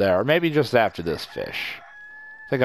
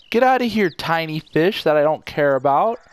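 shooing off; 5 semitones higher, 4 dB louder than usual. Real, not acted. Shooing away a tiny fish.

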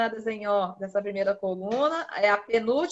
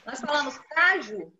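slowed demo. Shown as a demonstration. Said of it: "Agora aqui".

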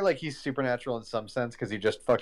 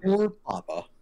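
put-on Mid-Atlantic accent; 9 semitones higher, slower than usual. Mocking the character's accent.

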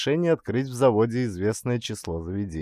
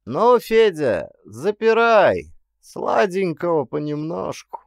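higher, louder, slow joking command; loud order; 7 semitones higher, 5 dB louder, slower than usual. A narrator's reading. Clerk tells the jailer to lock up, loud joking order. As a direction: close it off with a jolly order.

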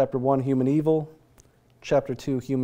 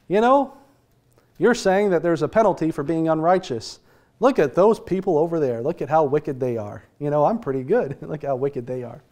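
self-righteous person. Retold or imitated. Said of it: "The self-righteous person says".

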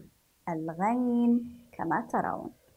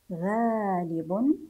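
"غالب" drawn out as one joined ghaalibun; slow careful reading; much slower than usual. Shown as a demonstration. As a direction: read "غالب" slowly with a long aa. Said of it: "نقرأ هذه العبارة". (قراءة "غالب" موصولة ببطء)

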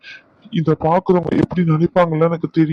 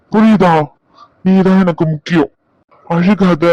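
urgent plea; 4 dB louder than usual. Acted. Husband pressing his crying wife, urgently louder. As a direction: push it out to make her listen.

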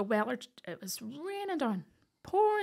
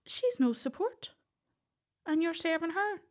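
higher, louder imitation of the gruff farmer dad; blunt dairy-man dad; 9 semitones higher, 4 dB louder than usual. Daddy warning the sheriffs on the phone, loud blunt imitation. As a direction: tell them straight, she won't cope. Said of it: "typical Northern Ireland dairy man".

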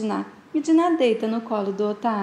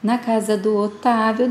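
ordinary talk

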